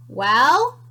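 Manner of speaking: impatient ask. Acted. Piglet waiting impatiently for his sandwich. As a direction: demand it. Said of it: "he asked".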